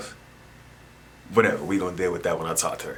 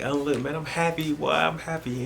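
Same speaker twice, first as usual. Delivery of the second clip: mock happiness; 7 semitones higher than usual. Acts out claiming to be happy.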